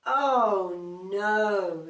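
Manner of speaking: loud, fed-up "oh no"; loud weary bear complaint; exasperated bear groan. Acted. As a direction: groan it out, at the end of his tether. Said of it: "said Mister Bear".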